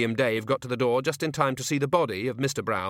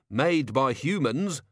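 slow, sharp and pointed; sharp retort; 4 semitones higher, 3 dB louder, slower than usual. Acted. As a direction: snap back at him, unhurried. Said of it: "said Mister Brown sharply".

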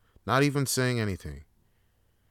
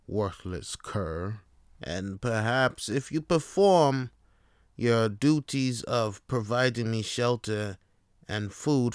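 snooty cat voice. Acted. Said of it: "I'm a cat".

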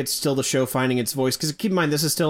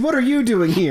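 high, loud Cockney urchin; street urchin voice; 10 semitones higher, 5 dB louder than usual. Pretend. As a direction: play a cheeky Dickensian urchin. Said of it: "Dickensian street urchin".

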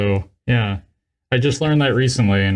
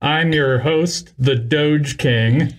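announcer voice; 3 semitones higher, slower than usual. Pretend. Podcast host intro.

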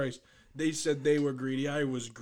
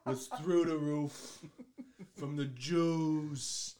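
lightly impersonated politician, very slow; a slightly off, drawn-out impersonation; Trump; much slower than usual. Acted. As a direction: drag out each phrase in a rough Trump take. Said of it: "Was that even a good impression?".

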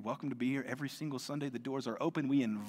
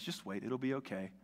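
reassuring; 2 semitones lower, 5 dB quieter than usual. Retold or imitated. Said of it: "He says".

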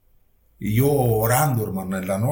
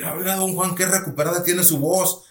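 higher-pitched, mildly astonished exclamation; surprised doctor; 6 semitones higher than usual. Retold or imitated. Doctor amazed at his patient's recovered voice, mildly surprised. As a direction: imitate a doctor lightly taken aback. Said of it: "se sorprendió él".

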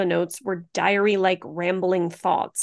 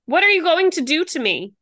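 scared plea; 8 semitones higher, 6 dB louder than usual. Retold or imitated. Quoting victim on tape.

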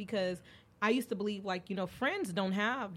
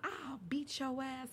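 slow, higher, softer mock threat; mom threat; 6 semitones higher, 7 dB quieter, slower than usual. Mom threatening her daughter, slow half-voiced mock threat. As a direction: lightly play the mother warning her daughter.

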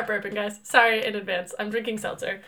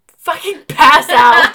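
whale voice; 4 semitones higher, 15 dB louder, much slower than usual. Pretend. Exaggerated whale-voice exhaustion.

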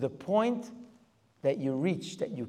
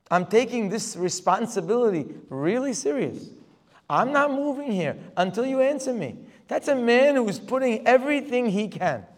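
louder and higher, insisting he won't move; fervent preaching shout; 6 semitones higher, 9 dB louder than usual. Retold or imitated. Voicing Moshe standing firm before God, loud fervent preaching. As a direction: preach it at full force, planting your feet.

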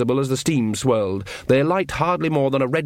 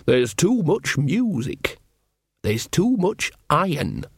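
slow, higher, homely voice; insistent country witch; 4 semitones higher, slower than usual. A narrator's reading. Witch tells king his rule is over, slow insistence. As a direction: spell it out for the god.

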